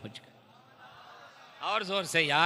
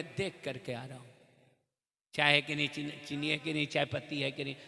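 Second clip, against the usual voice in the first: lightly voiced stalling host, trailing off quietly; hesitant excuse; 3 semitones lower, 3 dB quieter, faster than usual. Host without tea stalling his guest, softly hesitant. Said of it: "चाय घर में नहीं रखे होंगे तो कहेंगे".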